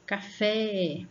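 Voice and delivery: Café with the final FÉ held; sílaba forte. Shown as a demonstration. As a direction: stretch the FÉ of Café. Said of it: "ela já se torna uma sílaba forte". (Café com o FÉ alongado)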